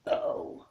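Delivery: letter burped out. Shown as a demonstration. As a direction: burp the letter O. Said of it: "That wasn't a good burp".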